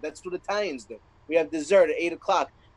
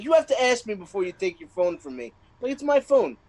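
imitating child; 5 semitones higher than usual. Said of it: "she's like".

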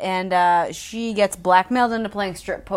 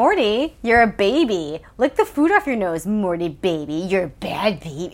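mock baby talk. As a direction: coo at him like a toddler. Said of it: "And she's like".

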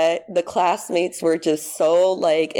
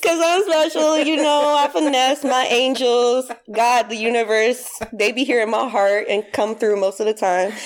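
playful boasting; 5 semitones higher than usual. Real, not acted. Playful self-praise after joke.

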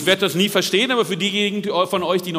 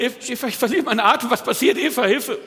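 hammed-up panic, higher, half laughing; mock panic; 5 semitones higher, faster than usual. Interpreter echoing grandpa's fake fairy dust panic. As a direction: rush it out, fighting back a laugh.

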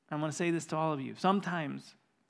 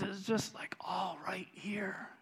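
hushed retelling; 4 semitones higher, 5 dB quieter than usual. Retold or imitated. Tom whispering about his grief.

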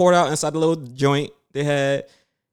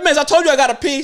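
mock distress; 11 semitones higher than usual. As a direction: squeal it like she's pressing your bladder. Retelling the bladder being pressed.

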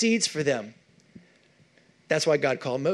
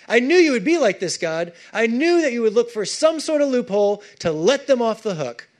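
bitter complaint; 5 semitones higher than usual. Acted. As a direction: throw the words back at God in resentment. Jonah's bitter prayer read aloud.

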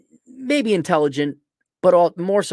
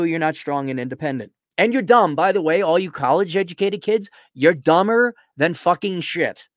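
angry rant. Real, not acted.

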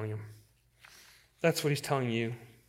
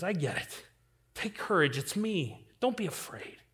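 softer, tender reassurance; gentle comfort; 3 semitones higher, 5 dB quieter than usual. Acted. Jesus gently reassuring a doubting believer, soft and tender. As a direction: quietly comfort a frightened soul. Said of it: "he's gentle with you and says".

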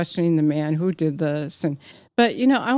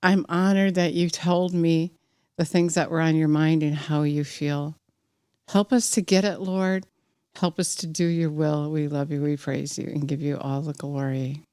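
prayer. Real, not acted. A preacher praying before the sermon, earnest prayer. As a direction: pray it sincerely, letting it drop.

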